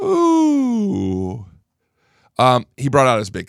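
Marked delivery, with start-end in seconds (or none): 0.0-1.5 laughing. Real, not acted. Laughs after catching himself.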